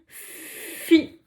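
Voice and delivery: On lit fi drawn out slowly, fi rising; slow reading. Shown as a demonstration. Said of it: "Qu'est-ce que vous lisez?". (lecture lente de fi)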